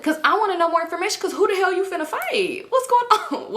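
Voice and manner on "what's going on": excited. Retold or imitated. Wanting the gossip.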